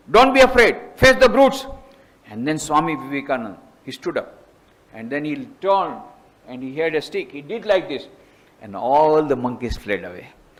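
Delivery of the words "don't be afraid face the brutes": put-on old man voice, high, loud commanding shout. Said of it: "an old monk shouting at him".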